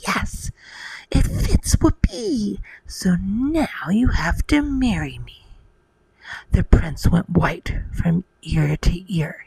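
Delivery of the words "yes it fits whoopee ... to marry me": hammed-up ugly sister scream; mock scream. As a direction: squeal it high, without full volume. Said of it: "But she screamed".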